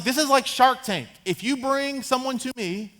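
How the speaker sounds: lightly acted king pitching a big deal; king as dealmaker. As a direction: sell the offer to the room. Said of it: "He's like".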